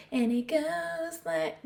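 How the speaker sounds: sudden high, slow, squeaky voice; goofy high-pitched intro. Pretend. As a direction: jump way up high and drag it out playfully. Repeats intro in odd voice.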